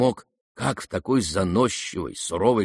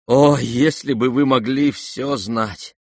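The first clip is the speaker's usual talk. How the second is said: slow, louder heartfelt exclamation; 4 semitones higher, 5 dB louder, slower than usual. A narrator's reading. Prince to Aglaya, slow heartfelt cry. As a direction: plead to be understood.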